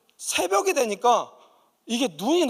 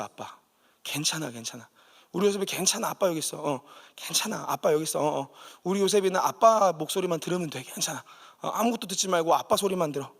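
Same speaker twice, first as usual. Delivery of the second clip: tender father; 3 semitones lower than usual. Retold or imitated. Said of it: "아버지의 따뜻한 음성".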